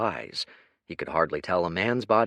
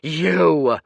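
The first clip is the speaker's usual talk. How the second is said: loud, higher angry yell; 8 semitones higher, 9 dB louder than usual. A narrator's reading. Kaya yells at the groper across the street, fuming. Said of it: "she yelled out".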